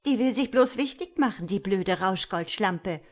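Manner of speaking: catty, irritated put-down; spiteful snarl. Acted. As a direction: snap dismissively at the tattletale. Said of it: "faucht Luzifera".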